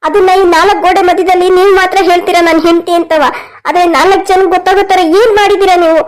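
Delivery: mildly tearful reproach; put-on crying. Wife reproaching husband over her standing, feigned crying. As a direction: complain through staged tears. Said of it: "ಅಳ್ಬೇಡ ಶೋಭಾ ನೀನು".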